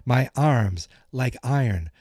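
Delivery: slow solemn kung fu voice; martial arts master. Retold or imitated. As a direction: intone it like a sensei. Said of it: "He's like".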